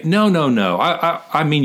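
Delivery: high, stammered mock objection; imagined backpedalling. Acting out what Paul doesn't say, mock backpedalling. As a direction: stumble into a high, hurried-sounding retreat. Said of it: "He doesn't go in and say".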